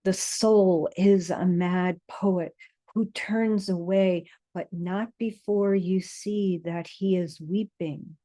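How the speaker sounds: measured poetry reading with deliberate pauses; poem recitation. A narrator's reading. Reading a poem to listeners settled with eyes closed, measured recitation. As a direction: recite it, letting each image land.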